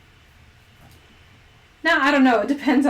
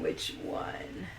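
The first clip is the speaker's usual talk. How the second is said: "Which one?" breathed, much lower and softer; whispered; 13 semitones lower, 11 dB quieter than usual. Pretend. Repeats the question whispered.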